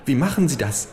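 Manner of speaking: high falsetto of a small fat lobbyist. Acted. Lobbyist lecturing the kangaroo at the buffet, high falsetto. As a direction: squeak it out like a nervous little fat man. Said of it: "mit Fistelstimme".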